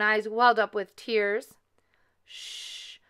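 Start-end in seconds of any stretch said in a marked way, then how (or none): 2.2-3.0 soft, voiceless hush; very quiet shushing; whispered shush. A narrator's reading. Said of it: "Mama Honey Bear whispered".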